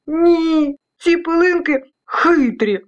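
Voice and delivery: put-on high, plaintive childlike whine; high-pitched storybook grievance; complaining. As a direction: complain to mum about the specks. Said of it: "в один голос поскаржились".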